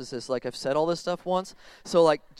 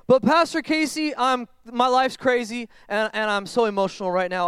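higher, louder, pleading, slowed "But Pastor Casey"; overwhelmed plea; 4 semitones higher, 3 dB louder than usual. Acted. Churchgoer pleading to Pastor Casey, overwhelmed and louder. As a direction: cry out like a frazzled churchgoer.

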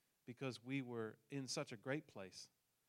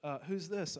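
loud; 5 semitones higher, 8 dB louder, slower than usual. Retold or imitated. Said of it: "I'm like".

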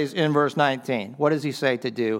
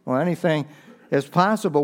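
Jesus answering; 6 semitones higher than usual. Acted. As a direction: lean on If, then ease into the promise. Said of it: "Jesus turns his words around on him".

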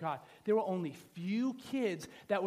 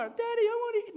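put-on very high little-kid voice; put-on small child's whine; pleading child; 4 dB louder than usual. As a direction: plead like a hungry child to Daddy.

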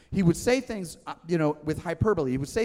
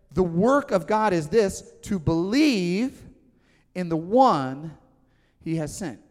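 slow weighty quote; 4 dB louder, slower than usual. Acted. Preacher quoting Jesus slowly.

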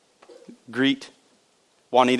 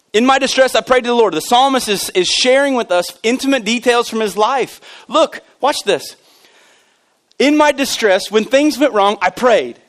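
raised, forceful preacher's delivery; emphatic pulpit proclamation; impassioned preaching; 7 semitones higher, 4 dB louder than usual. Real, not acted. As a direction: preach it out with rising fervor.

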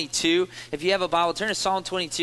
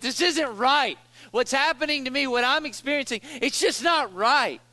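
higher, hurt protest; 6 semitones higher than usual. Retold or imitated. A sufferer protesting to God, higher hurt protest. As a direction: insist it is unfair.

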